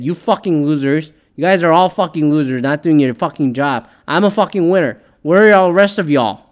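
mild mock yell of a coach; retold yelling. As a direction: imitate a coach berating his assistants, half-heartedly. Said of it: "was yelling at".

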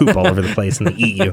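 sarcastic warning through a laugh; laughing mock warning. Co-host joking to keep riders off a secret trail, laughing mock warning. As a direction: pile on the fake horrors, amused. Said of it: "if you didn't catch the sarcasm".

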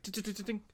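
light, high-pitched pinging; ping like bullets bouncing off metal; imitated bullet pings. Imitating bullets hitting, unnamed.

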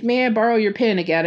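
quick, lightly put-on British accent; a fan's rough imitation of a British actor; bad British accent. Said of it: "I do a really bad British accent".

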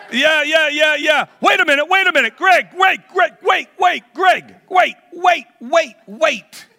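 high, loud shouts of wait; excited shouting. Real, not acted. Preacher shouts for Greg to wait, excited, high and loud.

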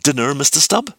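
a hint of friendliness in the summons; mildly genial invitation to the second mate; touch of pleasantness. A narrator's reading. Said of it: "with some touch of pleasantness".

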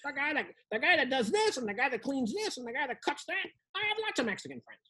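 soft mock white-guy voice, rising at the end. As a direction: put on a hushed, quick white-guy character. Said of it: "What is this voice?".

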